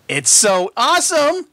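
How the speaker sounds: high, slow gushing filly; a breathless little filly's awe; excited. A narrator's reading. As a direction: squeal it with delight.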